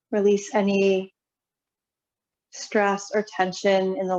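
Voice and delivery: calm, unhurried yoga guidance with long pauses; guided relaxation. Real, not acted. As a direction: ease them into settling, phrase by phrase. Leads seated yoga relaxation.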